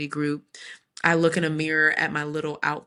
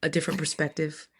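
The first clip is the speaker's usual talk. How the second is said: lightly voiced gentle counselor. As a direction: imitate a tactful, gentle therapist. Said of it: "my counselor gently was like".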